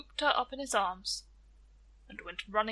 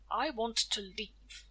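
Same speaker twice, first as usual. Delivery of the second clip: slow weary Death; slower than usual. Acted. Death pleading with Tia to let him leave, slow and weary. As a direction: drag the words out, tired of waiting. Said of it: "he said".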